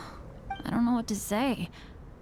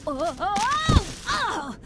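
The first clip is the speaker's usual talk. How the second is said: startled yelps; 7 semitones higher, 3 dB louder, slower than usual. Acted. Slipping and falling on ice.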